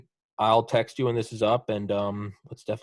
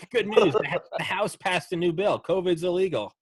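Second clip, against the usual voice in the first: mock triumphant announcement; 5 semitones higher than usual. Mock news of covid ban.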